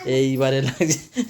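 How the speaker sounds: low-pitched teasing running commentary; mock dread. Real, not acted. Watching the kids about to scrap, mock dread. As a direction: drop low for playful oh-no commentary.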